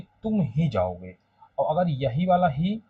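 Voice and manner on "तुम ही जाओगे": "तुम ही जाओगे" with तुम leaned on; stress on तुम. Shown as a demonstration. Teacher to class: stress on तुम. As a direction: push the तुम. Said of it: "जोर देने लगा कि".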